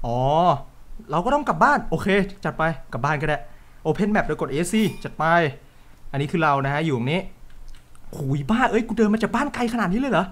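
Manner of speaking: ordinary delivery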